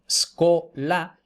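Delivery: scola starting straight on S, no vowel before; slow scola in two syllables, sco-la; liquid S. Shown as a demonstration. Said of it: "la S líquida".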